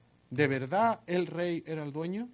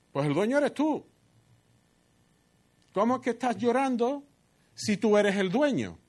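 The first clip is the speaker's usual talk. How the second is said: mocking scorn; 7 semitones higher than usual. Jezabel mocking Ahab's tears.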